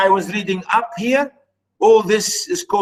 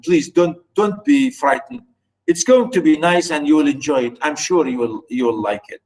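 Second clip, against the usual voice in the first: reassuring; 2 semitones lower, faster than usual. Real, not acted. Reassuring students not to be frightened.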